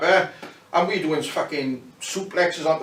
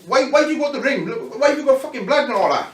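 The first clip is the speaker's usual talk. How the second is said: high, indignant demand; high-pitched retold outrage; angry K-Man; 9 semitones higher than usual. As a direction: play the furious headliner confronting him. K-Man angrily confronting him.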